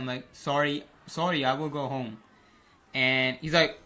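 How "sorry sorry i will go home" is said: lightly put-on Indian accent. Prankster apologising to the big homeowner, light Indian accent. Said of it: "I say in my Indian accent".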